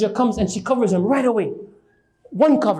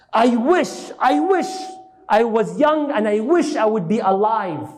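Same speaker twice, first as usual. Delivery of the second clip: put-on longing old scholar; 2 semitones higher than usual. Old blind scholar longing for youth.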